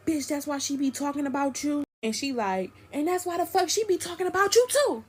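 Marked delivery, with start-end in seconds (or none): 0.1-1.8 high, needling quarrel voice; mock taunting jab; retold taunt. Boyfriend taunts her in quarrel. 2.9-5.0 much higher, heated retort; imitated high-pitched clapback; retold comeback. Friend fires the taunt back.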